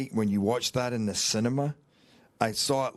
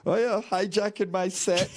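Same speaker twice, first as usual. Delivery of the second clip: teasing; 8 semitones higher than usual. Retold or imitated. Producer friend teases actor, laughing mock scolding. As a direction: playfully accuse him of hijacking. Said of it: "she quickly got in touch going".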